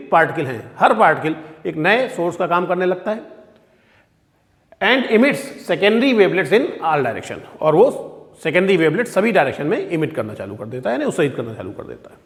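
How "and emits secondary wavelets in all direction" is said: very slow, word by word dictation. Shown as a demonstration. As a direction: read it out slowly so students can write. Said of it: "English में लिखा हुआ है".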